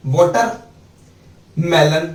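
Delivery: वाटरमेलन stretched out very slowly; slow demo word. Shown as a demonstration. Teacher to students, slow वाटरमेलन. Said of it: "पहले water की spelling याद करनी है".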